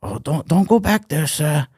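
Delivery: put-on a mild stab at the game character's Asian accent; imitating game's Asian accent. Retelling a game character's line, light Asian accent. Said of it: "The Asian guy was like".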